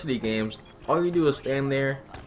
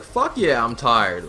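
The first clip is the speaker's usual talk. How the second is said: louder, retold yell of exhaustion; mock tired shout; 3 semitones lower, 5 dB louder, slower than usual. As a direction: yell it like a worn-out player answering the coach. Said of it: "People would be like".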